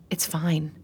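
soft whispered reply. Acted. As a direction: breathe it out, barely voiced. Hushed after the fight.

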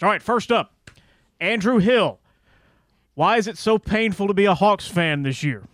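announcer reading a listener question; booming radio voice. Acted. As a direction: read it like a radio host. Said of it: "in his booming radio voice".

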